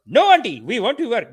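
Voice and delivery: high, loud imitated plea; mock begging. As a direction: plead with an older boss, hammed up. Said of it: "They beg for the jobs".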